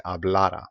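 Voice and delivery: hablara stressed on the middle syllable, ha-BLA-ra. Shown as a demonstration. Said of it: "the stress is on this letter A, the middle A".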